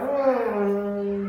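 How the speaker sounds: long descending engine hum; drawn-out mimicked motor drone; imitated engine noise. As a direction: drone like a plane motor winding down. Imitates plane engine cutting out.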